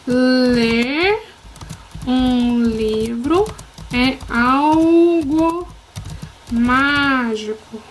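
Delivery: slow, wondering read-aloud; a slow storybook voice, each word savoured; magical intonation. Shown as a demonstration. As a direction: read it like something enchanted. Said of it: "quero que seja lido com uma entonação especial, algo mágico".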